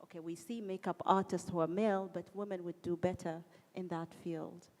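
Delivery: ordinary delivery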